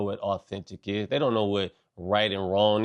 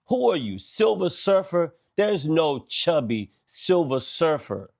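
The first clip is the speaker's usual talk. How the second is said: mock outrage; 6 semitones higher than usual.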